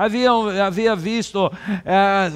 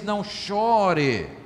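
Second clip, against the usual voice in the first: gentle comfort; much slower than usual. Acted. Jesus comforting the widow.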